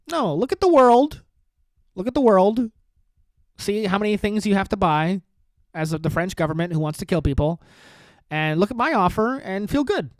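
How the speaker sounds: hammed-up rant like an outrageous podcaster; Tim Dillon impression. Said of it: "This is my Tim Dillon impression right now".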